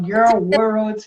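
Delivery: put-on girl said with clenched teeth, tongue cupped; girl with teeth shut. Shown as a demonstration. Teacher showing the trick for girl, teeth closed. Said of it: "com o dente travado".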